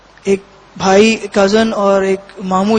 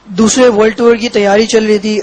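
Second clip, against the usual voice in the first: speaking up. Real, not acted. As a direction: repeat it more audibly when prompted. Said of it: "زور سے بولو".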